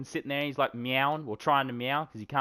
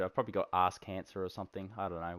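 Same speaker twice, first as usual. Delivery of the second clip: much softer, quick throwaway joke; mumbled aside; 6 semitones lower, 8 dB quieter, faster than usual. Real, not acted. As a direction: mutter it under your breath.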